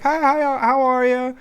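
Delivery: high, eager greeting; imitating eager boys. The boys answer the waitress, high and eager. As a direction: chirp it up high, a little too eager. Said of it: "we'd be like".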